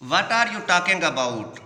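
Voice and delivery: each word drawn out slowly for the class; teacher reading a quote aloud slowly. Shown as a demonstration. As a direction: read it out slowly and clearly. Teacher reads dialogue line slowly.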